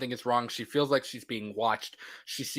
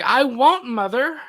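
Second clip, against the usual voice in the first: high mock reply; 10 semitones higher, 8 dB louder, slower than usual. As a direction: voice raised high, a mock whine. Nancy quoted defiantly.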